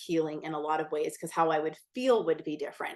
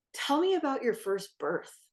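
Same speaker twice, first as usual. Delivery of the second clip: kind nurse. Retold or imitated. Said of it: "She was, like, so kind".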